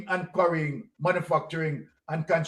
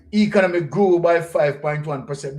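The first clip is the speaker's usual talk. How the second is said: loud headline read; 4 dB louder than usual. Real, not acted. Host reads headline loudly.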